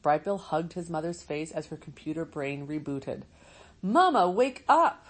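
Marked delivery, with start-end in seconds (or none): 3.8-5.0 high, loud call to wake her; a young goose shouting for his mother; frantic cry. Acted. Young goose crying out to wake his mother, high and loud.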